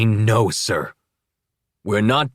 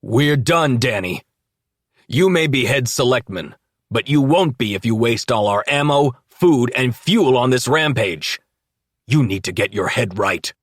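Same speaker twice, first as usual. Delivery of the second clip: loud, firm, raised voice; loud but controlled; 4 semitones higher, 5 dB louder than usual. A narrator's reading. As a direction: stay calm but project. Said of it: "remain calm while still speaking loudly".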